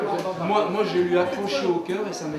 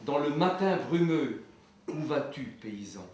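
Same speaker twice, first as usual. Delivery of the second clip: poem recitation. Acted. Farmer reciting his poem on the peasant's Sunday, declaimed verse. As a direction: recite with rhetorical questions rung out, then subside.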